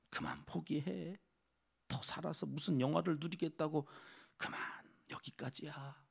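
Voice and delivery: lightly voiced tempter urging surrender; a hint of an insinuating devil; devil's coaxing. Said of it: "끊임없이 귀에다 대고".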